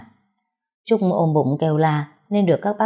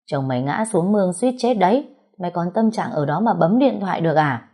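angry scolding. Acted. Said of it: "bà Thái tức giận mắng".

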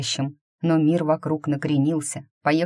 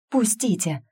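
higher pitched cry to let go; struggling shout; 7 semitones higher than usual. A narrator's reading. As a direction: shout while twisting free. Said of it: "кричала Эйвери". (крик вырывающейся девушки)

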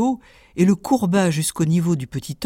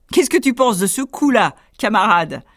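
higher, louder smug question; boastful tailor; 5 semitones higher, 4 dB louder than usual. Acted. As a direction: ask smugly.

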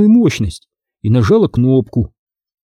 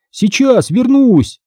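крик через плечо; 11 semitones higher, slower than usual. Acted. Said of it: "крикнул он через плечо".

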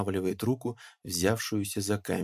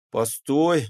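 loud, cutting "Постой!" to stop the other; annoyed, sharp stop; annoyed interruption; 5 semitones higher, 7 dB louder than usual. A narrator's reading. Pakhom cutting off the peasant's objection: loud, annoyed. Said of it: "досадливо перебил его Пахом".

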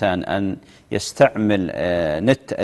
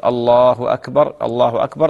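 takbir with a lengthened Allah; measured muezzin-style takbir; adhan call. Shown as a demonstration. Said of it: "بتكبيرتين، يقول".

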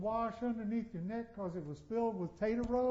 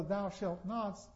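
thou shalt nots said slowly, each word weighted; slow emphatic quote; slower than usual. Shown as a demonstration. Preacher stressing Luther's thou shalt nots slowly. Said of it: "What Luther did is he took all".

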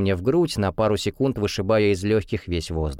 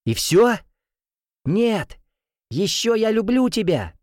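raised voice; 11 semitones higher than usual. A narrator's reading. Boyfriend shouts down to girlfriend, raised voice. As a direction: shout down joyfully. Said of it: "повышаю голос".

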